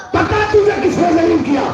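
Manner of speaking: acted indignant demand. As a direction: demand an answer, as the father in the story. Acted demand of father to Yazid.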